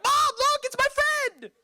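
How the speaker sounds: put-on high, excited child calling to mom; kid's voice. Grandson in the back seat begging his mom, high kid voice. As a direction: squeak it up like a little kid. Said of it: "Would have been like".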